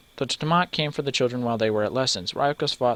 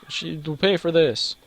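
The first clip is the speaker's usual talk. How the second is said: mock vengeful; 6 semitones higher, slower than usual. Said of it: "as I would like".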